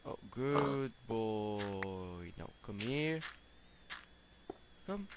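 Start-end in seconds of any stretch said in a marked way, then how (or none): 0.1-2.3 drawn-out praise. Real, not acted. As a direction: coo it out slowly. Pig obeys.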